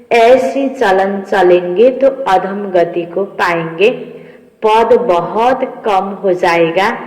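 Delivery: measured, emphatic reading of a holy text; deliberate devotional recitation; scripture reading. Acted. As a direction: read out the teaching phrase by phrase, drawing out words.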